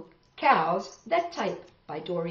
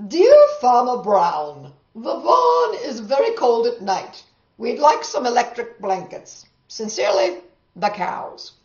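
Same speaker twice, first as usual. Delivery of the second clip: loud note reading; 4 semitones higher, 10 dB louder than usual. Acted. Cows' note read aloud.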